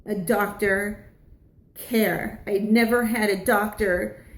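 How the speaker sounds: slow, halting, emphatic with welling emotion; moved and struggling to get it out; close to tears. Real, not acted. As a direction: fight back real tears, pausing between phrases. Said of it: "it's making me wanna cry now".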